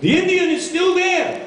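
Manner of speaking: high, voiced old Jewish man, laughing through; hasidic guy voice. Father answering the driver in a high joke voice. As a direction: play the nervous Hasidic father.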